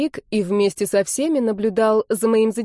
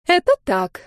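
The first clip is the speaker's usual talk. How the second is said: self-important; 9 semitones higher, 3 dB louder than usual. A narrator's reading. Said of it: "важно ответила".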